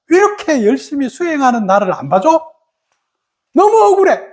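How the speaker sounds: a half-playful cry of injustice; aggrieved. Retold or imitated. Younger self feeling cheated of recognition, mock aggrieved.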